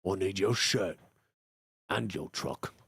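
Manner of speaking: low, soft tough-guy voice; Seth Green impression. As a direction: mumble like a movie thug. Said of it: "Seth Green imitations".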